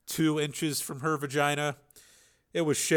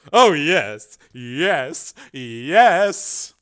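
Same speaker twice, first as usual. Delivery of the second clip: moaning; 4 semitones higher, 11 dB louder, much slower than usual. Acted. Debbie climaxing in chair.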